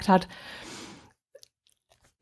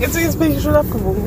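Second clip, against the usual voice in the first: laughing; 6 semitones higher, faster than usual. Real, not acted. Laughing repeat of reply.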